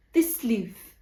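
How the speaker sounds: lightly mocked Yorkshire accent. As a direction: imitate a narrator's bad Yorkshire accent. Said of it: "I would just hear her voice".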